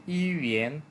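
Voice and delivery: "ইউএন" said as one joined word; model pronunciation. Shown as a demonstration. Teacher giving learners the pronunciation, model "ইউএন". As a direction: pronounce "ইউএন" clearly as ইউ-এন run together. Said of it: "উচ্চারণটা হবে".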